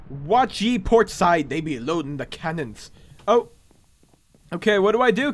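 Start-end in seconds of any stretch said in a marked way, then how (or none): 0.1-2.9 a hint of old sea-dog; pirate. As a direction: warn the crew in light pirate talk. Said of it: "a pirate impression".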